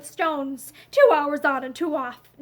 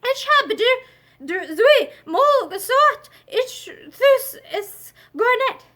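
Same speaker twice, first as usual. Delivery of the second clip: slow, higher German insistence; stubborn German; 7 semitones higher, 4 dB louder, slower than usual. A narrator's reading. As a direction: refuse flatly in German, twice told. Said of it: "I have told you twice".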